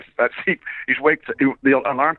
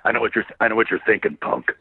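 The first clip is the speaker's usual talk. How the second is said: Clint Eastwood. Retold or imitated. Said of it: "the Clint Eastwood thing".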